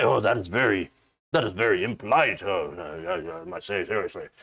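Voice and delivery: low, lofty mock British aristocrat; posh mock voice. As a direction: sniff down at them like snooty royalty. Mocking prissy royal protocol voice.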